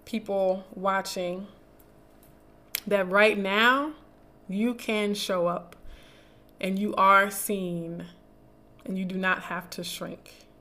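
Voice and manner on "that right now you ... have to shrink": slow, emphatic reassurance, leaning on you and are; directed at viewers. Acted. To dark-skinned viewers watching, slow reassuring affirmation. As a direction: speak it straight to them, tender but firm. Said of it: "I'm gonna say that again for any dark-skinned people watching".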